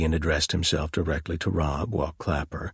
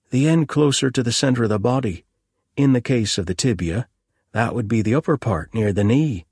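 put-on higher, eager young policeman; young constable voice; 6 semitones higher, 5 dB louder than usual. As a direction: play the keen young constable.

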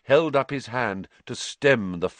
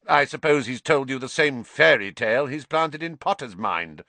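spat; 5 semitones higher than usual. Acted. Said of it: "spat Snape".

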